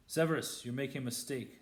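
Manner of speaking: pressing, insistent warning; urgent plea. Acted. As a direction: urge him to stop, fast. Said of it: "said Lupin urgently".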